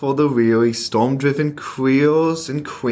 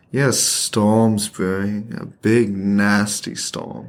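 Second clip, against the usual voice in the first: low seductive; 4 semitones lower than usual. Acted. Flirting in weather metaphor.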